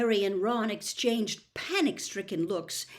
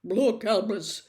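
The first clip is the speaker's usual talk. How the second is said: uncomfortable; 6 dB louder than usual. Acted. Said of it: "said Fudge uncomfortably".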